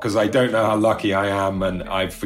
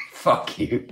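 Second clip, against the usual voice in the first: laughing; 9 semitones higher, 3 dB quieter than usual. Retold or imitated. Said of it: "he looked at me and went".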